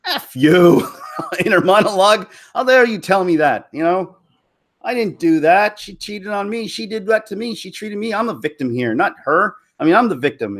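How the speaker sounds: hammed-up wounded protest; indignant retort. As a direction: argue back at your own conscience. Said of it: "And I said".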